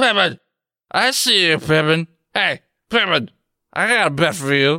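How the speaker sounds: put-on sloppy, slurring, loud drunken bellow. A drunk calls after Pittman as he walks to his car; slurred, loud drunken roar. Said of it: "Slurred, sloppy, loud speech. The roar of a drunk".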